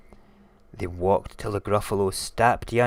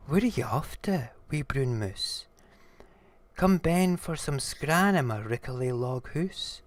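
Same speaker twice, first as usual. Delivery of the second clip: lightly voiced snake, pitched up; higher-voiced storybook snake; coaxing snake; 6 semitones higher than usual. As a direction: invite the little mouse in.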